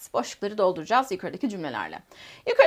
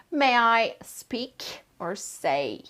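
drawn-out choice question; much slower than usual. Shown as a demonstration. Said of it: "Hangisi gelir?".

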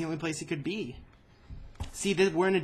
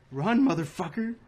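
yelling while running away; 3 semitones higher, 5 dB louder than usual. Real, not acted. Urging while chased.

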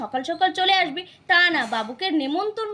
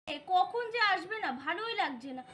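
fed-up grumble; 10 dB quieter than usual. Acted. Sister alone waiting for her late brother, fed-up grumbling. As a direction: trail down softly, weary of waiting.

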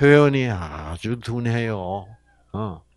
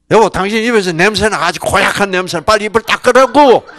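fast, louder nagging wife; nagging command; 5 semitones higher, 7 dB louder, faster than usual. Pretend. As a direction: rattle it off like a scolding wife. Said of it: "이렇게 되면 아주". (빠르고 크게 쏘아붙이는 잔소리)

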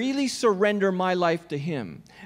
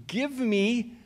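mock demand; much slower than usual. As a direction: demand it, drawn out with a pause before the last word. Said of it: "if I were to demand something".

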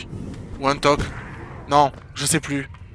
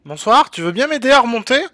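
higher, louder, fast pleading; 7 semitones higher, 7 dB louder, faster than usual. Pretend. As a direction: beg politely, pitched up. Asking game character help.

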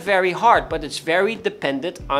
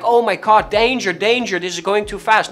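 mock panic; 2 semitones higher, 4 dB louder than usual. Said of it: "the more like".

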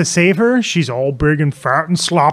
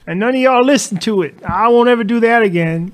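imitating Ivan; 6 semitones higher than usual. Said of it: "He's like".

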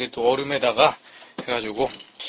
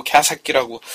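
ordinary talk

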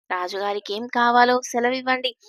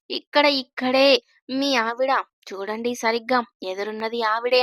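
mischievous. Acted. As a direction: coax him with a light teasing lilt. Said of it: "అన్నది ధరణి కొంటెగా". (కొంటెగా నెమ్మదిగా)

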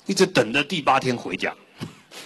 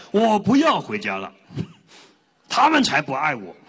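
fed-up refusal; 4 semitones higher than usual. Retold or imitated. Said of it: "佛来问他要不要回家".

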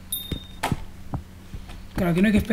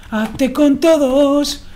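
drawn-out slogan; 6 semitones higher, 4 dB louder, much slower than usual. Pretend.

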